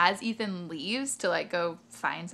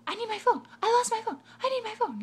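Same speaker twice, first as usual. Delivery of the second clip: much higher, louder frantic plea; imitating tweaker lady; 4 dB louder, faster than usual. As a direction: whine for the phone like a desperate addict. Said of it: "she's like".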